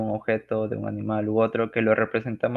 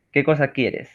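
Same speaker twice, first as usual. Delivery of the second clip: emotional question; 3 semitones higher, 3 dB louder than usual. Shown as a demonstration. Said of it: "una pregunta con emotividad".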